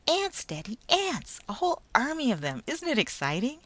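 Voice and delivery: very high, loud thrilled cry; excited little boy. A narrator's reading. Boy spotting the marching ants, thrilled child cry. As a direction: burst out with joy at the sight.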